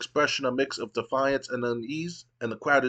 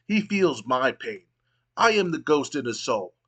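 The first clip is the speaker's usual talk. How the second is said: angry; 3 semitones higher than usual. Acted. Raven's dark vengeful promo.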